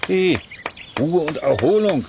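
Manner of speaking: laut und hoch, genervt hinüberrufen; verärgerter Ruf. Acted. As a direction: beschwer dich laut über den Lärm. Peter ruft verärgert zum Hämmern. (Angler ruft verärgert zum hämmernden Wirt, laut und gereizt)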